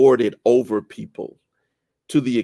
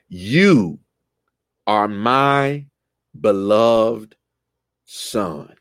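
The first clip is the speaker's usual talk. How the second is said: voice of God; much slower than usual. Retold or imitated. Voicing God's announcement.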